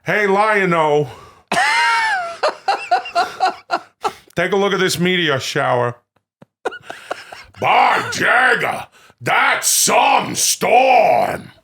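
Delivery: hammed-up cartoon lines in a tough-guy impression; drawn-out mock actor voice; Robert De Niro as Panthro. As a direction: stretch the big words and shout the storm line. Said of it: "Robert De Niro is Panthro".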